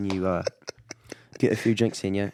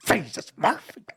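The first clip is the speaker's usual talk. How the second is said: much higher Canadian exclamation; Bubbles impression; 13 semitones higher, slower than usual. Quoting Bubbles to a fellow fan, high exclamation. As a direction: blurt it out as Bubbles. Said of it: "He goes like this".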